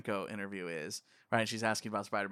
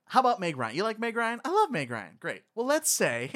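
gushing fan; 11 semitones higher, 4 dB louder than usual. Retold or imitated. Quoting him gushing about Meg Ryan.

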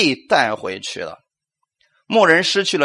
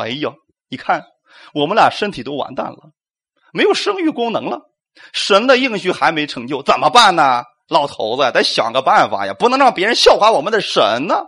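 worried Sarah. Retold or imitated. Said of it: "撒拉就太着急了，说".

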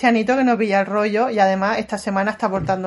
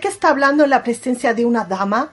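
indignant scolding; 4 semitones higher, 5 dB louder than usual. Acted. Ricardo scolding Lourdes.

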